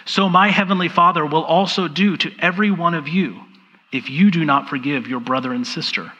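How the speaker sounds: measured reading aloud with long pauses; deliberate, reflective Bible reading; slow scripture reading. Real, not acted. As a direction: read it unhurriedly, letting each phrase land. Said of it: "I'm going to read it slowly".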